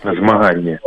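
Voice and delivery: «Змаганне» with fricative g; Belarusian pronunciation. Shown as a demonstration. Linguist repeats the Belarusian word, «Змаганне» with fricative g. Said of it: "В белорусском языке есть такое слово".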